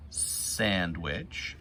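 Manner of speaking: ordinary delivery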